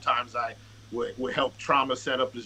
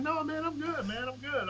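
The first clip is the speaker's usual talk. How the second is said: retold reassurance; 12 semitones higher, 4 dB quieter than usual. Retold brush-off to worried callers.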